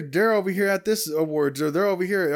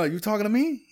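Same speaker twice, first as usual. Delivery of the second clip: De Niro line; 4 semitones higher than usual. Retold or imitated. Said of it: "he ad libbed".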